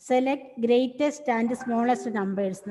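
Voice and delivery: very slow, word by word, for writing down; slow dictation. Shown as a demonstration. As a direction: dictate it slowly so students can copy. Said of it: "question എഴുതാൻ സമയം തരാം".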